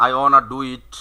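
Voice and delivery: "wanna" as one word without a t; contracted "wanna". Shown as a demonstration. Teacher demonstrating spoken shortcut, "wanna" run together. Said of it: "এই shortcut বলে দিল".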